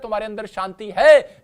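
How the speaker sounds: loud preaching declaration; forceful quote. Acted. Preacher proclaiming Jesus' words to the church, loud. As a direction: proclaim it to the congregation.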